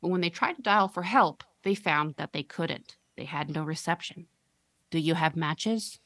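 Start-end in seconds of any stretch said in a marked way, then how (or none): 4.9-6.0 put-on slow monotone creepy little girl; flat, eerie, slow question; creepy monotone child. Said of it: "monotone and deeply".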